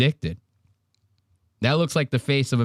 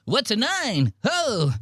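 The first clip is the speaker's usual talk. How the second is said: very high, frantic mock voice with a laugh; panicked Mark; 10 semitones higher, slower than usual. Teasing Mark's terror at a nicotine pouch, squealing high. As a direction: squeal it like he thinks nine means a gun. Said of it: "He goes".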